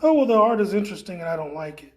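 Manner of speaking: quick, mock-polite brush-off; hurried, faintly disdainful mock quote; dismissive "interesting". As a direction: imitate someone politely dismissing the art. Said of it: "in that way when you, uh, say it like".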